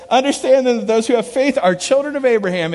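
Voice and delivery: buddy reading the verse eagerly; excited reading. Retold or imitated. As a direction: read it as a discovery. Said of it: "Look, it's right there".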